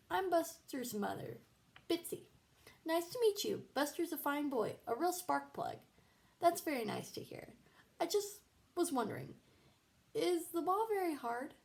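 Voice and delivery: high, sing-song worried mom; chirpy and anxious; a fluttering overprotective mother; fussy mother. Acted. Bitsy voiced as fussy mother.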